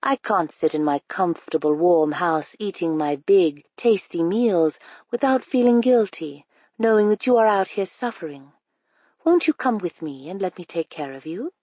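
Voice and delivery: lightly voiced smooth-talking stranger, sweetly persuasive; a hint of a too-friendly stranger luring a child; coaxing stranger.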